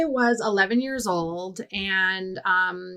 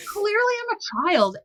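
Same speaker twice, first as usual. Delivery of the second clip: put-on childish squeak; 13 semitones higher than usual. Mocking own childish phone voice.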